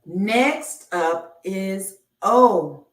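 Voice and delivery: slow, stretched reveal; slow sing-song reveal; drawn-out announcement. Acted. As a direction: draw it out like revealing the next letter to kids. Slow game-show style letter reveal.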